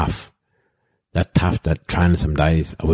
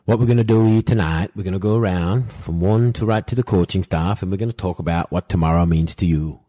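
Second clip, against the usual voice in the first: lightly imitated English coach's accent; half-hearted English accent for the coach; bad pommy accent; 3 semitones higher than usual. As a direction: put on a rough pommy accent, starting higher. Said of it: "I've got a shit pommy accent".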